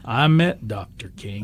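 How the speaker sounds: a hint of a Southern gentleman, slow and measured; deep Southern voice. Retelling a board member rebuking a racist joke in a light Southern accent. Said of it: "in a real deep Southern voice".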